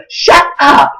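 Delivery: put-on high, drawn-out teen disbelief; mock-incredulous, pitched well up; daughter's disbelieving "shut up". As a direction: imitate an astonished daughter. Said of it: "she'll look at me and go".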